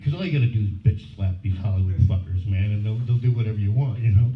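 brash and swaggering; cocky boast. Retold or imitated. Telling his agent off, brash swagger. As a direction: brag like a tough guy. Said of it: "I'm like".

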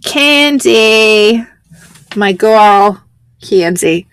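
drawn-out, mock-fond name; playfully put-on name. Host introduces my girl Candy, playfully put-on delivery. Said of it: "I don't know why I'm saying it like that".

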